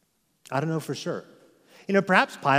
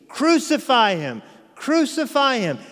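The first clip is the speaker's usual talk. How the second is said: high, loud mob chant; mob screaming; 8 semitones higher, 3 dB louder than usual. Retold or imitated. The mob screaming at Pilate for crucifixion. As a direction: shout it like a baying crowd. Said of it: "the mob screams".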